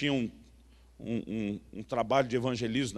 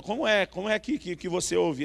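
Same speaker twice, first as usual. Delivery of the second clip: higher-pitched retold questions; insistent questioning; 4 semitones higher than usual. Young believer questioning his pastor about hearing God, insistent questioning. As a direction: re-enact pressing, repeated questions in a raised pitch. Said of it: "aí eu tô lá perguntando".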